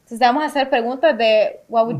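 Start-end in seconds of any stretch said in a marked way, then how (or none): 1.7-1.9 spanglish. Real, not acted. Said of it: "Ya iba a decir en inglés".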